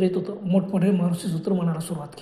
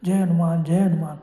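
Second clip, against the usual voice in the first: acted rallying cry with long held names; calling out; slower than usual. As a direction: chant it out to summon divine rescue. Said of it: "मी लगेच मोठ्याने ओरडलो".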